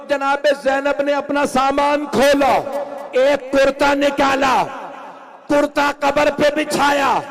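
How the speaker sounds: high, loud wailing sermon delivery; impassioned mourning sermon. Acted. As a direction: build the lament up high and loud. Second rising climax of sermon. (ऊँची आवाज़ में मातमी बयान)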